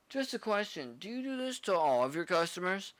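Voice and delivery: high, mocking girlfriend voice; a lightly voiced catty woman's question; mock snippy woman asking; snide girlfriend.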